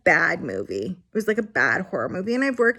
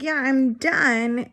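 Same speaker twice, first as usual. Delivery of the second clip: slow resigned reply; 5 semitones higher, 4 dB louder, much slower than usual. Retold or imitated. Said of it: "And I was like".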